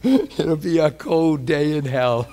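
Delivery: laughing through a slow, emphatic boast; laughing defiance. Real, not acted. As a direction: chuckle while insisting it will never happen.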